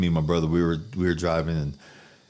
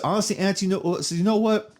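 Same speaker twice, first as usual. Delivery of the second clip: raised, high-pitched urgent admission; earnest confession; 10 semitones higher than usual. Retold or imitated. Nephew finally confessing to his aunt, high and earnest. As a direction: build up to a revelation, voice pitched high.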